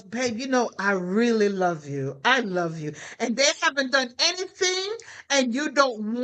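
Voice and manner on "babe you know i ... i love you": tender love words. Pretend. To the spouse, unprompted, a tender lower I love you. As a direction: murmur it sweetly to your spouse. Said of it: "how often do you tell your spouse".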